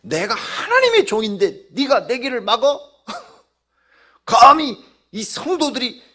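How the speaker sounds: high, very loud husky outburst; hoarse, indignant tirade at full volume; husky furious shouting. Retold or imitated. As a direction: imitate an enraged pastor yelling hoarsely at whoever blocks the way. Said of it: "목소리가 또 이렇게 허스키하게 막 변해가지고".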